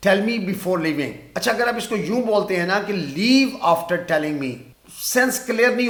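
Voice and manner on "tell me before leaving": very slow, word by word; slow dictation. Shown as a demonstration. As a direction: dictate slowly for the class. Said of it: "مجھے بتا کر جانا".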